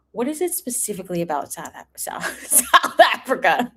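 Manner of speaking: laughing through the question, bemused; laughing disbelief. Retold or imitated. Host retelling her puzzlement about South Africa, laughing. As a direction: ask it while cracking up. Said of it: "And I'm like".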